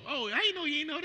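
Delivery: laughing, high voice of a member; laughing quote. Retold or imitated. Church member laughing at pastor, high laughing voice. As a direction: tell it through a laugh.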